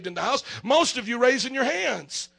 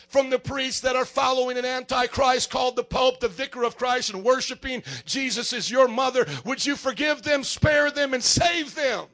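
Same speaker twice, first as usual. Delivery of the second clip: fervent prayer. Real, not acted. Prays aloud for Catholics.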